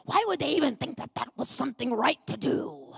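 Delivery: indignant imitation of a worked-up husband; put-on, worked-up grumbling; mock frustrated rant. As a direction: act out an exasperated complaint. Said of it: "frustrated and worked up".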